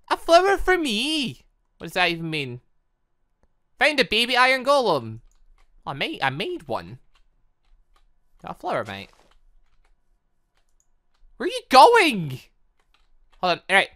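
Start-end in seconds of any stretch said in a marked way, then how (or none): 0.1-1.4 high, slow, sweet put-on voice; cutesy high voice. Player receiving a flower from the golem, cutesy high voice. 11.4-12.4 high loud call after a wanderer. Real, not acted. Player calling after a villager walking off, high and loud.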